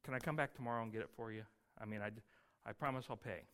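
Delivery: a man quietly pleading with the tax collector; timid pleading. Retold or imitated. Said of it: "So you say to the guy".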